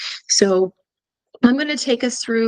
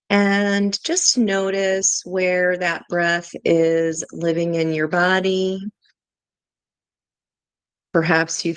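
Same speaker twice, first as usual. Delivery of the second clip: guided meditation; 3 semitones lower than usual. Real, not acted. Tarot teacher leading viewers through a grounding exercise, guided meditation. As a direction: guide listeners gently through each breath, unhurried.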